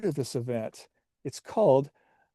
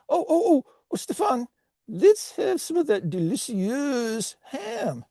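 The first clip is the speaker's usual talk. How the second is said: high, excited cartoon French; terrible French accent; 10 semitones higher than usual. Potato salad urging Stéphane to try ham, high French accent. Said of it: "you have a terrible French accent".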